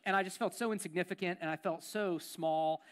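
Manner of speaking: subdued confession. Real, not acted. Confessing feeling insignificant.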